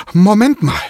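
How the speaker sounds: high, loud call to stop everyone. A narrator's reading. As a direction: shout to halt the group. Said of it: "ruft Diego".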